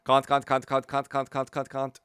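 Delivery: "Kant" with a long open British a, repeated; British can't. Retold or imitated. Streamer mimicking the game character's British "can't", playful. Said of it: "Kant sounds a little different with this accent".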